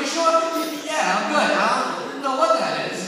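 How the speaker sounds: voice cracking. Retold or imitated. Voice breaking from crying.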